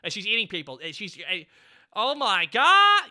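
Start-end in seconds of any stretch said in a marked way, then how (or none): 1.9-3.0 drawn-out loud oh my God, slow; stunned. Real, not acted. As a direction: stretch it out in disbelief. Reacts to eating people.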